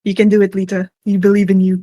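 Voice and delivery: encouraging cheer. Real, not acted. Cheering friend on.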